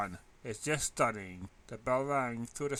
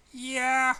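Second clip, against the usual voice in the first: wary; 10 semitones higher, 9 dB louder than usual. A narrator's reading. Wary reply.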